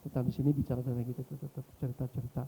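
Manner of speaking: low, hushed, careful approach; soft and gentle. Retold or imitated. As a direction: imitate speaking softly to an angry man. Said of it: "saya pelan-pelan sama dia".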